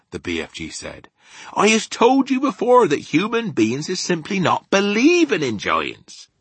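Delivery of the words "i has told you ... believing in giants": loud, high rustic giant; BFG, insistent. Acted. Giant insisting humans won't believe, emphatic. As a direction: insist loudly, dropping at the end.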